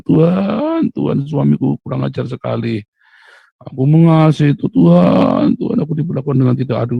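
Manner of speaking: imitating a self-pitying crying prayer; whiny tearful prayer. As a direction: complain to God through tears. Mocking a complaining prayer.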